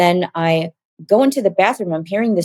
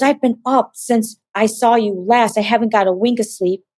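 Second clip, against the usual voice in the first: higher-pitched, agitated retelling; frantic brother; 4 semitones higher than usual. Retold or imitated. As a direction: voice a sleepless brother, lightly frantic. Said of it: "He sounded frantic and crazy".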